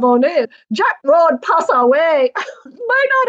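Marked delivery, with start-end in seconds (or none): 0.7-2.3 a lightly done imitation of a Chinese accent, slightly higher; mock Chinese accent. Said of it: "put on a Chinese accent live". 2.3-3.3 laughing. Real, not acted. Cracking up live on air.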